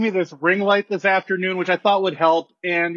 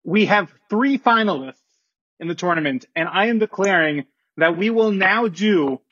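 formal announcement. Acted. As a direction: read it like a commissioner at a podium. Commissioner's formal statement.

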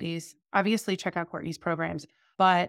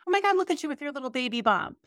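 fast, higher, cooing stranger; gushing stranger; 6 semitones higher, faster than usual. Retold or imitated. Stranger points out her baby bump, quick higher gushing. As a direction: rush out the gushing compliment. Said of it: "she goes".

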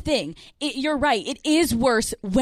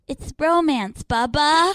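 put-on cutesy baby voice; 3 semitones higher, slower than usual. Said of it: "he's like".

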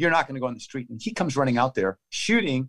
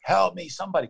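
retold yell; 6 semitones higher than usual. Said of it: "yelling, like".

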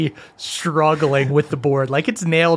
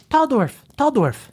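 put-on high excited children's voice; 9 semitones higher than usual. GM voicing dwarf children.

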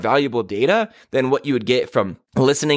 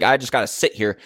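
ordinary delivery

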